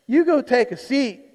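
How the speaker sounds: a hint of a stern father sending the boy to sit. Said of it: "he could have told his son".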